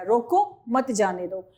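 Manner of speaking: short break after रोको, then मत जाने दो; light comma pause following रोको. Shown as a demonstration. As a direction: say रोको, pause briefly, finish मत जाने दो together. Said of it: "रोको के बाद ये अल्प विराम लग गया".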